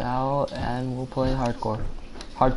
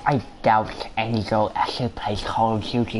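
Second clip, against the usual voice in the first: nerd voice. Pretend. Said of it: "You gotta say it in a nerd voice".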